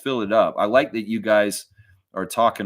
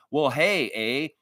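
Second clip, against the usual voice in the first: hammed-up Canadian voice, higher, leaning on every "eh"; mock Canadian accent; 8 semitones higher, slower than usual. Mocking Rudy Gay's accent jab with an exaggerated Canadian accent. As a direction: play the bumbling Canadian stereotype with a higher pitch. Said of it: "Or you talking about".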